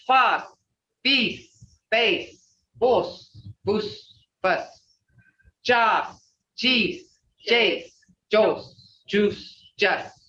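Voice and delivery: each syllable said slowly and clearly as a drill; drilling Muskogee syllables. Shown as a demonstration. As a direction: model each Muskogee syllable for the class to repeat. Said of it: "we're gonna start right here".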